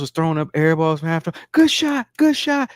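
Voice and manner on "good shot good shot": high, loud fake-supportive cheer; sarcastic impression of a sucking-up dad; mock cheerleader. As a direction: overdo the eager parent praise. Mimicking man's fake cheer.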